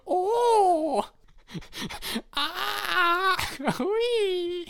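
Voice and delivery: hohe laute Ui-Rufe beim Hüpfen; vergnügte Jauchzer. Acted. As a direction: quietschen vor Vergnügen. Alte Frau hüpft auf Hüpfburg. (vergnügte Jauchzer)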